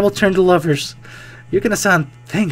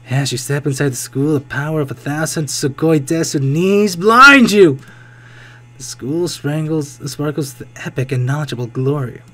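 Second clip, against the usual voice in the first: narrator voice; 2 semitones lower than usual. Shown as a demonstration. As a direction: read the game text like an epic trailer. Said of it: "Don't know why I'm talking like this".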